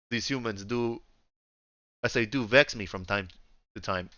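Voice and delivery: attempted Russian accent, trailing off; lightly put-on Russian accent; a halting try at Russian-accented English. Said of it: "I'm trying to do Russian".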